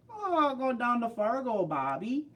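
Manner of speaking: high, slow mock Fargo accent. Showing viewers that kind of thing, hammed-up Fargo accent. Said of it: "the Fargo".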